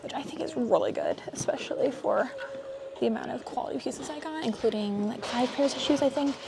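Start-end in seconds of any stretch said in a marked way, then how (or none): 0.0-4.4 whispering. Real, not acted. Quietly narrating while checking out.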